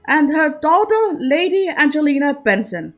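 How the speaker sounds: formal announcer. A narrator's reading. Lord Chamberlain announces the debutantes.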